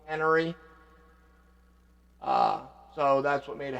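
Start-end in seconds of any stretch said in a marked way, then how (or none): 0.0-0.5 Henry said as 'Enry, no H sound; 'Enry with a silent H; H dropped. Shown as a demonstration. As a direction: drop the H in Henry, English style. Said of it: "completely take the H out".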